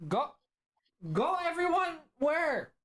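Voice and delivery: confused creature voice; Liger's backwards talk. Acted. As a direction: Liger echoing words in reverse order. Liger echoes the party.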